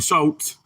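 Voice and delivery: "shoat" for short, no R; Mississippi pronunciation. Shown as a demonstration. Streamer showing how Mississippians say short, "shoat". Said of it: "y'all know I'm from Mississippi".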